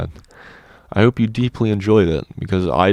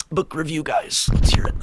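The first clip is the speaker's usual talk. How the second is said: mock announcer; 9 semitones higher than usual. Announces the review segment.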